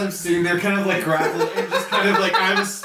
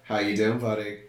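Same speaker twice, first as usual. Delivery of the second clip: menacing grin; 6 semitones lower than usual. Acted. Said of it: "I grin again and go".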